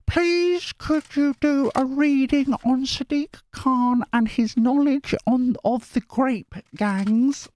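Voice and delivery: high, slow squeaky mock of the viewer; squeaky commenter voice. Vlogger reading a viewer's comment aloud, squeaky and high. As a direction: read her request in a put-on squeak. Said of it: "impression of my voice".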